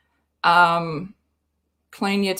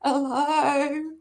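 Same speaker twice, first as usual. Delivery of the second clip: sassy hello; 5 semitones higher than usual. Pretend. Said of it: "my voice".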